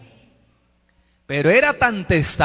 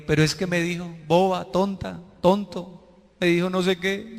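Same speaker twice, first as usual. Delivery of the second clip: mock wounded; 5 dB quieter than usual. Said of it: "usted todavía todo herido".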